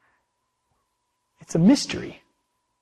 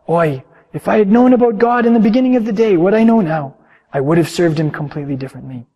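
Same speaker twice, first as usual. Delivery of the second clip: louder, higher regretful sigh of a line; echoing the innkeeper; 3 semitones higher, 5 dB louder than usual. Acted. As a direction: lament your own failings.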